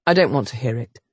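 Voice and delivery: lightly voiced hero. Duke's heir refusing the governess, low and curt. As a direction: shut her down flatly.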